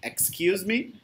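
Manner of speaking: "excuse" starting with a clear "eks"; teacher models "excuse me" with rising end; X pronunciation demo. Shown as a demonstration. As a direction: sound the K and S in "excuse". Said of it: "the pronunciation when there is X".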